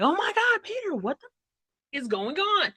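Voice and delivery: high, mock alarmed squeal; shocked squeal. Wyatt finding Peter shackled, high mock alarm. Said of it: "she, like, is like".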